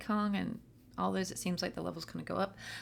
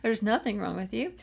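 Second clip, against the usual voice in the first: soothing parent; 3 semitones higher, 6 dB louder, faster than usual. Retold or imitated. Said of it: "We go".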